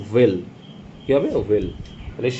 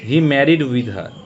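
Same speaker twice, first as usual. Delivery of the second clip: 1 slow read-out; 3 dB louder, much slower than usual. Shown as a demonstration. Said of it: "married-এর পরে কী হয়".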